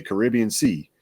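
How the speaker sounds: Caribbean Sea with Caribbean as kuh-RIB-ee-un; Caribbean stressed on RIB. Shown as a demonstration. Host says it for the sea, Caribbean stressed on RIB. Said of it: "If I think about the sea".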